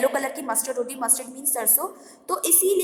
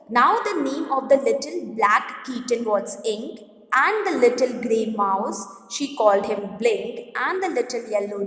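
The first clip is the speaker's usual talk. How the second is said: slow, measured read-aloud of verse; poem reading; 3 semitones lower, slower than usual. Acted. Teacher reading a humorous poem to students, slow recitation. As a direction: read the stanza out slowly, phrase by phrase. Reads the next stanza aloud.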